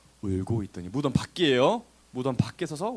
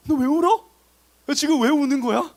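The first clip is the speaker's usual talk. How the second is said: high, loud, baffled why-are-you-crying tone; mock unempathetic questioning; 10 semitones higher, 6 dB louder than usual. Angel without empathy asking the crying woman, loud mock bafflement. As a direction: question it with no sympathy at all, acted. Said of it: "감정이 없어가지고 이 사람이 울고 있는 거에 대해 전혀 공감이".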